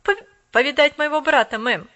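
loud, stumbling, quick; boy hurrying to sound polite; boy cutting in quickly, politely; hurried polite boy. A narrator's reading. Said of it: "торопливо вступил".

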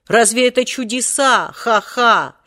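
mocking scoff with a short laugh; ironic. A narrator's reading. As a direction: sneer at the rival's tricks. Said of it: "иронически продолжал".

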